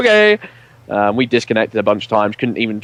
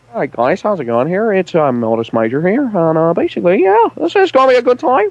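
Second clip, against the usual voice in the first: put-on Northern Irish accent, very high; 9 semitones higher than usual. Asked by another speaker to do a northern irish accent. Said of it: "Do do the nor- Northern Irish accent".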